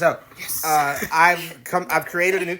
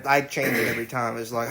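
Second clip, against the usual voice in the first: ordinary delivery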